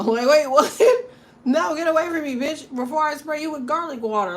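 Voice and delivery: high, loud, laughing shriek to get away; laughing mock panic. Woman shooing off a hungry vampire, laughing in mock panic. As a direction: shoo the vampire off in a giggling panic.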